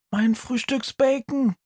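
ordinary talk

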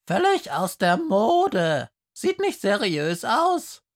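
a skunk pupil calls out from the front row; calling skunk. Acted. Skunk in the front row calling out to the teacher.

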